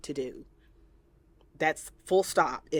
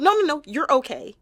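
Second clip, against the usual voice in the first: higher, louder dismissive reassurance; imitating a parent; 9 semitones higher, 7 dB louder, faster than usual. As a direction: wave the hurt away. Parent dismissing child's hurt.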